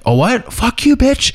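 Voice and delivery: high-pitched mock angry comeback; short-tempered. Imagining someone hot-headed escalating it, mock short-tempered. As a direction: act out someone flying off the handle. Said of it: "someone else with a, a short temper".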